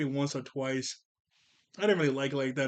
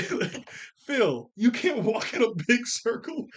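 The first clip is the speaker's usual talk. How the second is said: higher, louder call to the screen, half laughing; exasperated call-out; 7 semitones higher, 4 dB louder, slower than usual. Real, not acted. Vlogger calling out to the cartoon kid, exasperated. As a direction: tell him off for messing up the circle. Yelling at cartoon kids' mistake.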